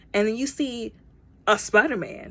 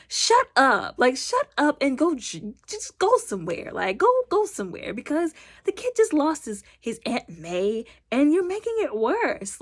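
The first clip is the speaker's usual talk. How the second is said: exasperated higher yell of shut up, mock scolding; mock telling off; 5 semitones higher than usual. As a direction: snap at him to shut up, half-playfully. Telling Jameson off in the cinema.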